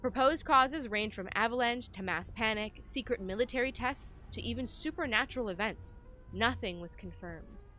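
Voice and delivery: measured, emphatic narration of a report; document read-aloud. Acted. Player reading the game's note to viewers, documentary narration.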